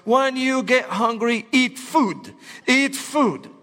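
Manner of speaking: speaking slowly. Retold or imitated. Roommate speaking slowly to foreigner.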